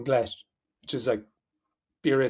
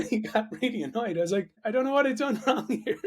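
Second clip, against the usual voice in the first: laughing; 7 semitones higher than usual. Real, not acted. Telling the friend about the offended Aussie, laughing. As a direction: giggle as you tell it.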